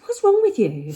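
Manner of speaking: hammed-up confrontation; retold outburst. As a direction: lose it at the colleague. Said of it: "And I lost it".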